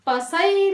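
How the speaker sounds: पसई said slowly as pasai; deliberately wrong reading. Shown as a demonstration. Teacher reading the misspelt पसई aloud. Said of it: "हम बोले तो पसई".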